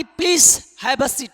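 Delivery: Please have a seat stretched very slowly; slow modelled phrase. Shown as a demonstration. Teacher modelling interviewer's invitation to sit, very slow. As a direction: spell out each word. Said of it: "अगर वो बोलेगा कि".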